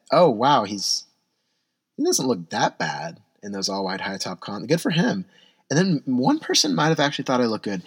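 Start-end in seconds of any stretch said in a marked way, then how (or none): 0.1-5.2 mock impressed passerby. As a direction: play a stranger grudgingly impressed. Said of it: "three said".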